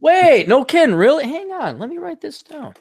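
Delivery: hammed-up excited disbelief, tapering off; eager surprise. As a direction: react as if this is amazing news. Reacting eagerly to a podcast plug.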